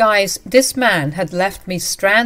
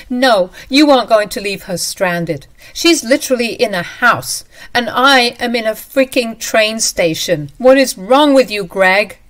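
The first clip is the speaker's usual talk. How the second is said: louder and higher, sarcastic; angry retort; 4 semitones higher, 6 dB louder than usual. Acted. Wife arguing with husband on phone, louder and sarcastic. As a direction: throw his words back at him.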